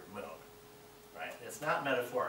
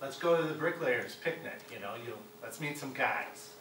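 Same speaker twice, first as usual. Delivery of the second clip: lightly acted casual invitation, louder opening; everyday American speech; 6 dB louder than usual. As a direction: toss it out like common working-class talk, easing off after the opening. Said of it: "just common everyday American speech".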